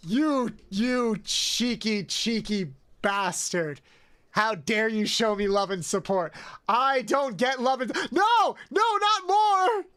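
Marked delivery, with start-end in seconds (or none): 0.1-3.8 mock outrage. Mock scolding generous gifters. 6.7-9.8 overwhelmed by yet more gifts; shocked protest. Real, not acted. Another gift arrives.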